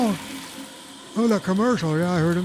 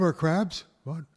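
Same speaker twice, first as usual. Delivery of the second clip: radio announcer. Acted. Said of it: "I sound like Ricky Radio".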